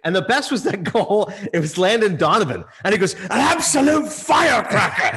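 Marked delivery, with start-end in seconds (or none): 3.1-5.0 shouted, slow, high commentator call; fired-up soccer commentator impression; Ian Darke. Retelling the call of Landon Donovan's goal, fired up. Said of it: "He gets fired up".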